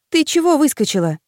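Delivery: high surprised exclamation; exclaiming. A narrator's reading. Girl startled by friend in the dark, high exclamation. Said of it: "воскликнула я".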